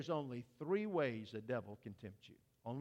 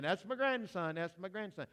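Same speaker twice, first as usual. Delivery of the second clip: mock proud shout, higher, fading on the repeat; proud grandpa shouting; 3 semitones higher than usual. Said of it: "She's only drowned out by the grandpa".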